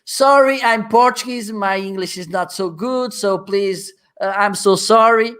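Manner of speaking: high, pleading mock apology; apologetic presenter. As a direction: play the nervous apologizing speaker. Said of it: "I don't do it because".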